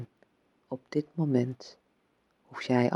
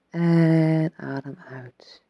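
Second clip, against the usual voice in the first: whispering; 3 semitones higher, 4 dB louder, slower than usual. Acted. Breath guidance, whispered slowly.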